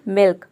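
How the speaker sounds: "मिल्क" with half l, full k; half L demo. Shown as a demonstration. Teacher blends the explained letters into one word, half L demo. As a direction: say "मिल्क" with short i and the l joined to k. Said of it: "आधा ल pronounce करेंगे".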